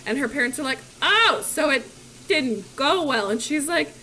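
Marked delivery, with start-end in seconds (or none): 1.0-3.3 lightly raised, slow dawning reaction; acted parental realisation. Parents grasp Mulan's failure, mildly surprised. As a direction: start louder, then slow on the bad news.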